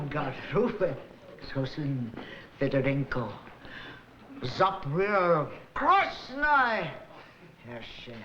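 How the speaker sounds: low, hammed-up fake Russian babble; mock Russian gibberish. Interpreter fakes translating to the ballet master, mock Russian. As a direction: bluff a translation in made-up Russian.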